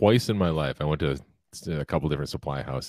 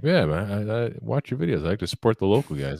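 higher-pitched imitation of a keen supporter; imitated friendly fan; 6 semitones higher than usual. Counter guy praising the videos, imitated high and friendly. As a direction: lift the voice like an eager local fan.

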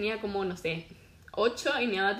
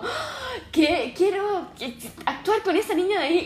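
Emma Watson; 7 semitones higher than usual. Retold or imitated. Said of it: "como Emma Watson me dice".

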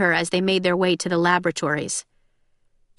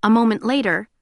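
ordinary talk, nothing marked

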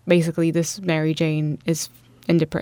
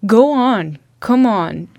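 powerful tone; 3 semitones higher, 5 dB louder than usual. Retold or imitated. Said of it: "this very powerful tone of".

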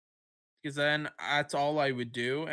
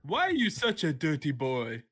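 creepy impression. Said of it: "my impression".

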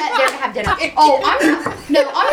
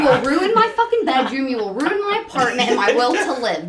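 laughing rant. Retold or imitated. Telling friends her fear he dies there, laughing. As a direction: rattle it off half laughing. Ranting about him dying there.

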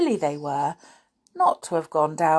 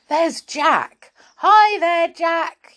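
high, loud hail across a distance; storybook character yelling hello; yelling greeting; 11 semitones higher, 7 dB louder, much slower than usual. A narrator's reading. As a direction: call out excitedly to a friend. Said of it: "yelled Saucepan".

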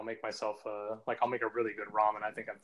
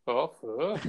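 bad Korean accent; 2 semitones higher than usual. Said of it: "saying it with a really bad Korean or Vietnamese accent".

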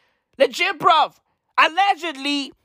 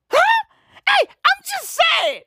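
mock defensive; 4 dB louder than usual. Defensive joke after a risky claim.

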